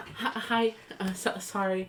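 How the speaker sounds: timid, small, high voice, very slow and drawn out. Voicing a character who waves and introduces themselves, in a small voice. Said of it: "a small voice go".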